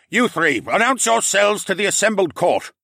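loud, high stern order; commanding lord voice. Acted. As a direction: demand it before the court.

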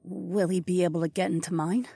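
soft, high, anxious question; worried. A narrator's reading. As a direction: wonder aloud with mild worry. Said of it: "chewed her bottom lip with worry".

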